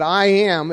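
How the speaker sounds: "I am" lightly stressed as a unit; emphatic I am. Shown as a demonstration. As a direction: lean a little on "I am". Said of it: "is very emphatic".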